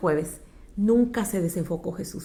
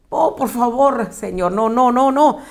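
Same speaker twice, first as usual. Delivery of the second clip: pleading; 3 semitones higher, 5 dB louder than usual. Acted. Discípulos suplican a Jesús.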